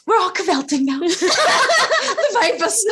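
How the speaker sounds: high, teary laughing, slowed on the vapors; laughing while fighting tears; real emotional giggle; choked-up laughter. Real, not acted. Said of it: "now I'm all choked up".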